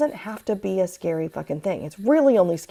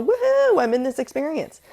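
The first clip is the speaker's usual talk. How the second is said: riding the storm; 4 semitones higher, 4 dB louder than usual. Retold or imitated. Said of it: "So I'm just gonna lay there and go".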